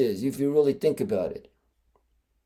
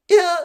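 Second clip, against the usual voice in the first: high, half-hearted little yelp; thin token kiai, no power; weak strike yell; 12 semitones higher, 4 dB louder than usual. Shown as a demonstration. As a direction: give a feeble high martial arts cry. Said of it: "you know, weak".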